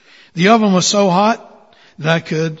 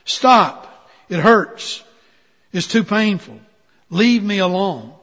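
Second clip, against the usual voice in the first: crying out in pain; 3 semitones higher, slower than usual. Acted. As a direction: beg the potter to stop. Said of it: "I cried out".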